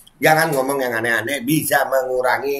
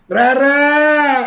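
high, loud laughing shriek; squealed name; 13 semitones higher, 4 dB louder than usual. Real, not acted. Squealed name before laugh fit.

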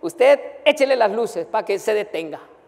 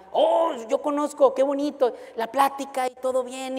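friendly professor; 5 semitones higher than usual. Retold or imitated. Professor chatting kindly.

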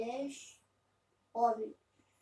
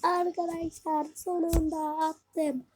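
slow, stretched words, growing louder; drawn-out triumph; 3 dB louder, slower than usual. Real, not acted. Gamer telling friends he finally scored, slow triumph. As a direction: stretch every word in triumph. Relieved triumph after scoring.

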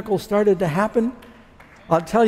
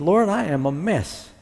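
prayer. Retold or imitated. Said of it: "I said".

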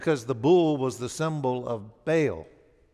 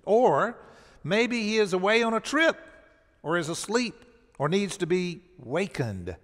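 mocking; 5 semitones higher than usual. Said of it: "Elijah began mocking them".

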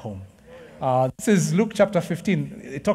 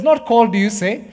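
emphatic quote; 4 semitones higher, 7 dB louder than usual. Retold or imitated. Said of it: "He says".

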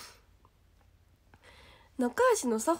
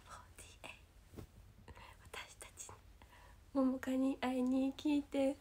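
whispered invitation; 6 dB quieter than usual. Acted.

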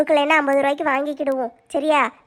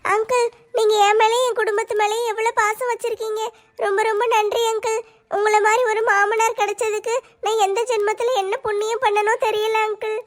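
higher, emotional voice; tearful gratitude; 4 semitones higher than usual. Acted. Daughter-in-law thanks her kind father-in-law, tearfully grateful. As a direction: thank him as if moved to tears.

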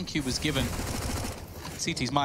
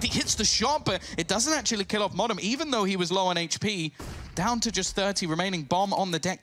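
lively esports play-by-play call; esports caster. Real, not acted. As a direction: build tension as the clutch unfolds. Live play-by-play, rising tension.

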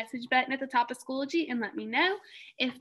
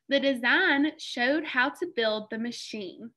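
reading together. Shown as a demonstration. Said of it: "let's read this sentence together".

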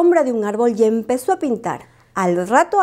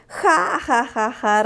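ja ja leídos, apenas reídos; risa burlona; 3 semitones higher, much slower than usual. Acted. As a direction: carcajada fingida de los animales. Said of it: "rieron los animales del bosque". (los animales se burlan de Lupo con risa leve)

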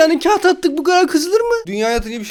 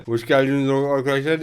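softer, calm classroom welcome; gentle teacher greeting; 8 semitones lower, 5 dB quieter than usual. Shown as a demonstration. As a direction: show her how to greet kindly, without shouting. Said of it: "Böyle konuşun".

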